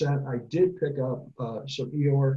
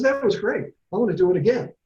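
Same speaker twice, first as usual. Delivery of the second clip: much higher and louder, bouncing with glee; thrilled Tigger; 7 semitones higher, 7 dB louder than usual. Acted. Tigger after tumbling over a rock, wildly excited. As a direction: cheer it like a kid who loves falling. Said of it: "he's that excited child".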